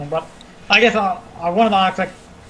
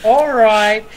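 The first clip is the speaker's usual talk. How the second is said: mock rebuke; 3 semitones higher, slower than usual. Acted rebuke to teasing companions.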